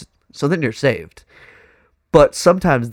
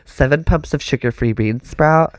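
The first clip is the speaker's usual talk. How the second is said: put-on Valley Girl voice; 2 semitones higher than usual. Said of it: "That Valley Girl shit".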